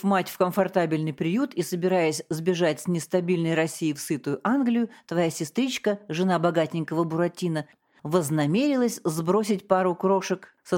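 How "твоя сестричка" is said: plain reading voice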